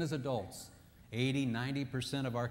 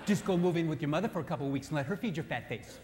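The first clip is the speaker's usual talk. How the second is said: indignant wife snapping back; offended wife; 3 semitones higher than usual. Acted. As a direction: take offence and hit back. Acted wife's angry retort.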